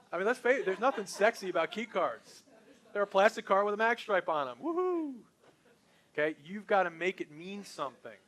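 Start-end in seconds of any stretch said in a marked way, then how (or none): 0.1-4.6 mocking enthusiasm. Real, not acted. Mocking dull key cards. 4.6-5.1 mock cheer. Sarcastic cheer about key cards.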